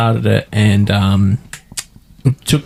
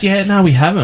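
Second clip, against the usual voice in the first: mimicking the clerk; 10 semitones higher than usual. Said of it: "she goes".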